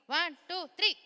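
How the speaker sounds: building countdown. Real, not acted. Countdown for kids to shout.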